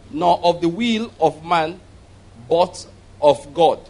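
slowing down into "but of God"; solemn Bible reading, slowing at the end; scripture reading. Acted. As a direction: draw out the last words of the verse. Reads verses twelve and thirteen.

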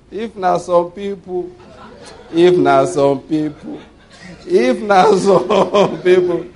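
slow, drawn out through laughter; laughing. Real, not acted. Preacher setting up the contrast, laughing slowly. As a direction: savour the setup while laughing.

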